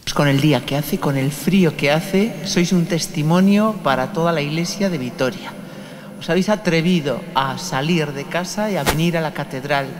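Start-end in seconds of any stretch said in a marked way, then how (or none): none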